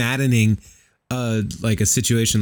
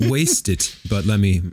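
chewing gum. Real, not acted. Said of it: "But I just put it in".

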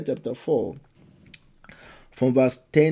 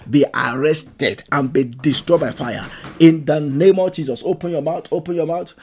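loud, forceful prayer at full voice; preaching prayer; 4 dB louder than usual. Acted. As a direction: cry out to the Lord, pleading hard. Prayer against joy stealers.

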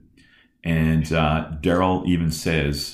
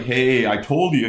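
a touch of gloating, slightly louder; lightly acted boast of a kid rubbing it in; mock bragging; 5 semitones higher, 5 dB louder than usual. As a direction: tease like a smug winner. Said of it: "he wasn't like".

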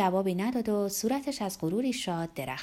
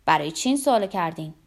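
quick, louder question with fresh interest; newly interested; 3 semitones lower, 7 dB louder, faster than usual. A narrator's reading. Investigator questions Olga about her question, with fresh interest. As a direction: ask briskly, interest suddenly renewed.

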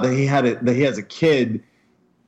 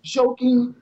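incredulous high; 10 semitones higher than usual. Real, not acted. Incredulous rant.

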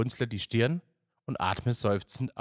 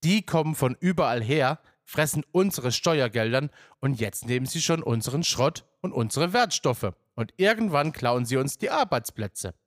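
higher-pitched, indignant complaint; agitated rant; 4 semitones higher, 4 dB louder than usual. Acted. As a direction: grumble heatedly, hitting each grievance. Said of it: "bemerkt Detlef etwas ausgebracht". (aufgebrachtes, empörtes Schimpfen)

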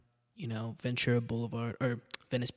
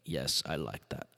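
put-on deep, slow Austrian accent, much lower; 9 semitones lower, 6 dB quieter, slower than usual. Arnold admiring a Kennedy, in a low, slow Austrian accent. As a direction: drop low and drawl it in a heavy Austrian accent. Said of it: "The accent got worse".

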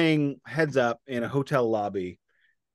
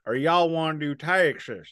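Texan twang demo, pitched higher; Texas Southern accent; 4 semitones higher than usual. Shown as a demonstration. Co-host contrasts Southern accents for the other, Texas accent. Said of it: "there's eight different Southern accents".

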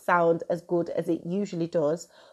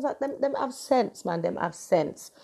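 Jamaican patois. Acted. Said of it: "I love the way I just switched".

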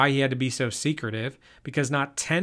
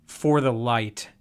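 slow, stern answer; 2 semitones lower, slower than usual. Acted. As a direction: lay it down slowly, no arguing. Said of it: "he answered sternly".

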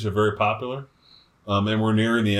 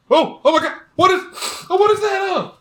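shrill, much higher disgusted squeal; imitating wife; 6 dB louder than usual. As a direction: squeal it high and loud, grossed out. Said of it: "And then I hear you go".

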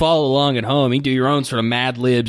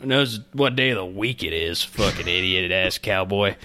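cowboy voice; 3 semitones lower than usual. Acted. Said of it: "in this cowboy voice".

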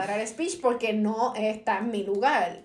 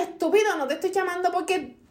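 higher-pitched, indignant retelling; retold exasperated rant; 6 semitones higher, faster than usual. Telling him off for keeping the phone, mock exasperation. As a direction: replay an annoyed telling-off. Retelling her angry call back.

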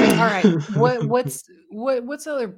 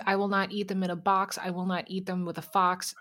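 Doctor Seuss recitation; 5 dB quieter than usual. Pretend. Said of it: "you quote Doctor Seuss".

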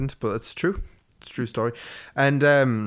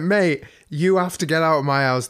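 loud, raised demand to leave; firm loud order; 4 semitones higher, 4 dB louder than usual. Retold or imitated. Telling the crackhead rapper to leave, raised and firm. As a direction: order him out of the house. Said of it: "And I went".

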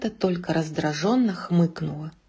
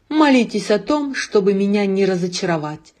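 sinister warning, lightly raised; ominous. Acted. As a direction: threaten like a dark lord. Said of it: "зловеще произнёс Эго".

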